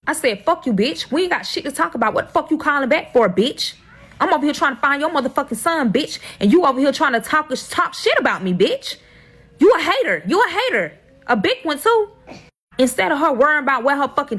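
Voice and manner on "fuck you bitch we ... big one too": higher, heated retold tirade, climbing at the end; higher, fast-paced mock yelling at her; retold cussing out. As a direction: replay the fight, pitch up and pressing.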